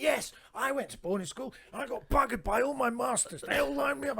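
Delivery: high mock-posh cheerful confession; posh boarding school boy. Southerner joking back to the lad, mock posh. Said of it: "And I went".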